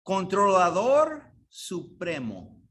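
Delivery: controlador supremo drawn out slowly, weight on controlador; slow emphasis. Shown as a demonstration. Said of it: "la definición de esa palabra es". (despacio, recalcando controlador supremo)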